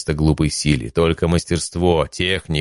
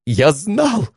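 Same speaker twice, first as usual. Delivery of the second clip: jubilant yell; 12 semitones higher than usual. Acted. God Veragon yells in triumph after Leon's win. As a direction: yell it so the heavens hear. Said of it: "Верагон орал так громко".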